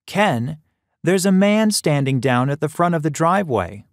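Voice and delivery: put-on elderly mother calling out. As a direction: call to her son across the dark house.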